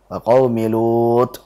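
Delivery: Lut with a breathy, airy t; slow demo of qaumi Lut with hams on the t. Shown as a demonstration. Teacher demonstrating the wrong breathy t to students. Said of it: "ada hamsnya".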